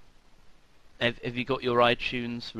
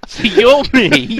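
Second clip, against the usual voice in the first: slow, loud and high, spelling it out; exasperated, louder; 8 semitones higher, 11 dB louder, slower than usual. Real, not acted. Explaining roles, exasperated.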